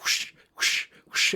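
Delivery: whispery whooshing noise, repeated; voiceless swishes made with the mouth; imitated whoosh. Imitating camera flicks while retelling the game, airy whooshes.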